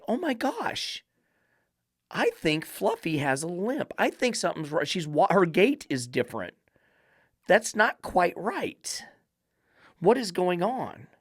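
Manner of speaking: high, soft voice of an owner noticing a limp; worried owner. Retold or imitated. Dog owner spotting her dog's limp, in a high, soft, worried voice. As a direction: play the owner who spots a problem, softly alarmed. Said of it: "look at your dog and say".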